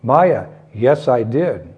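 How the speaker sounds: put-on lifted, mildly insistent child's protest; insisting. Krishna contradicting his mother, earnest insistence. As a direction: press the point, rising on the yes. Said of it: "Krishna insisted".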